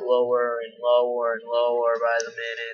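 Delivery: words trailing gradually downward. Shown as a demonstration. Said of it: "I do not wanna get lower".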